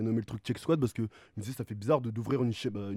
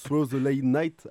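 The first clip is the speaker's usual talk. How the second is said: French accent in English; 3 semitones higher, 5 dB louder, much slower than usual. Real, not acted. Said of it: "après j'ai un accent anglais, euh, de merde".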